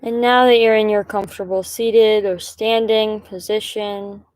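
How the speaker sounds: calm, measured meditation guide, pausing between phrases; guided meditation. Acted. Guide inviting listeners to settle and breathe, calm meditation voice. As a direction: lead them gently, leaving long silences between instructions.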